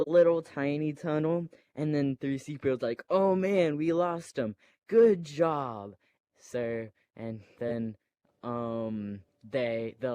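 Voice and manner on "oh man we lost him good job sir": lightly voiced droid. C-3PO voiced in retold scene.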